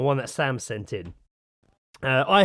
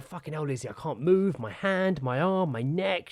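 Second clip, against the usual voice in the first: mock whine; 2 semitones higher than usual. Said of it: "today I'm like".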